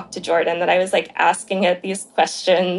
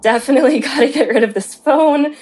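laughing disbelief; 6 semitones higher, 4 dB louder, faster than usual. Retold or imitated. Creeped-out friends after hanging up.

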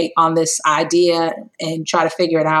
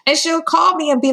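laughing; 11 semitones higher than usual. Real, not acted. Laughing while recalling.

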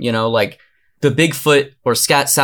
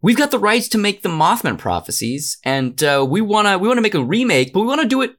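lightly put-on producer pitch voice, pitched up in bursts; pretend studio producer; 3 semitones higher than usual. Producer welcomes Andrew in to pitch a Mothman remake, mock executive patter. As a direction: play a movie executive running a pitch meeting.

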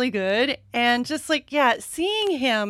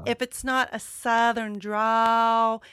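lightly demonstrated Southern drawl, vowels stretched out. Shown as a demonstration. Podcaster showing how North Carolina neighbors talk, light Southern drawl. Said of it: "talk a little like this".

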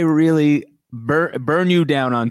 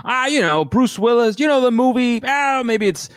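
higher, lightly voiced muddled mother; imitating mom; 8 semitones higher than usual. Friend mimics his mother recalling a movie, lightly higher. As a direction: fumble for names like a vague mom. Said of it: "then it turns out she's like".

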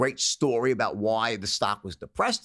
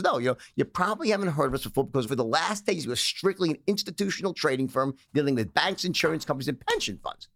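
lightly voiced sales pitch, a bit higher; pitch demo; 3 semitones higher than usual. Shown as a demonstration. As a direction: read the justifier like a smooth broker. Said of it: "It was".

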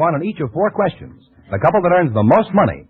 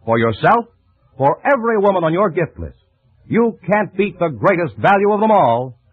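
polished announcer selling compacts; ad read. Acted. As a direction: sell it like a radio commercial.

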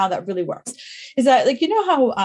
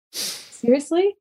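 incredulous; 4 semitones higher, much slower than usual. Retold or imitated. Reacting to husband's text.

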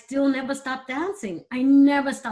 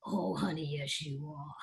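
softer, lower, lightly voiced director; imitating Spike Lee; 6 semitones lower, 11 dB quieter than usual. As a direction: coax her gently, low and soft. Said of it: "he went".

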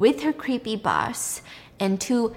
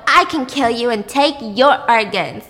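louder, swaggering promise; cocky Dave; 4 semitones higher, 6 dB louder than usual. Retold or imitated. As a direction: boast with a grin. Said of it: "He's like".

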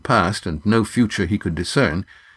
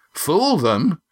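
snorting; 8 semitones higher than usual. Acted. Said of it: "echoed Gar with a snort".

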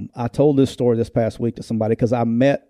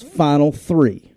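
slow, dramatic mock commitment reveal; hammed-up slow recruit video announcement; slower than usual. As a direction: play the recruit announcing his picks with gravity. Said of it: "He goes".

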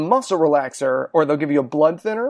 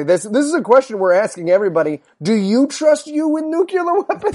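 higher, incredulous questioning voice; mock moderator; 3 semitones higher than usual. A lightly voiced moderator asking Trump about himself, higher mock question. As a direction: ask it like a baffled debate host.

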